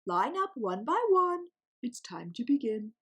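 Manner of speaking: teacher calling out. A narrator's reading. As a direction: call the line-up across the shore. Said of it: "Mister Tux called out".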